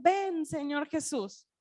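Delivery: slow, certain plea, falling at the end; sure call. Retold or imitated. The church calling out to the Lord, slow and sure. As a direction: say "Ven, Señor Jesús" slowly and firmly, the voice dropping on "Jesús". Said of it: "y el espíritu y la novia dicen".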